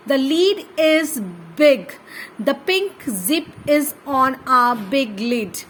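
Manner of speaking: put-on very slow, word by word, like dictating to a child; slow reading aloud for children. Shown as a demonstration. Teacher reading sentences for kids to copy, slow and clear. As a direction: read each word out carefully and slowly.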